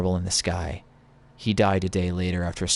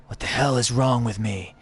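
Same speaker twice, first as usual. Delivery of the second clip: higher wanderer's voice, demanding; lightly voiced Drifter, pitched up; Drifter impression; 5 semitones higher than usual. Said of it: "I'm gonna do my Drifter impression".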